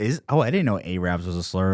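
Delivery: normal talking voice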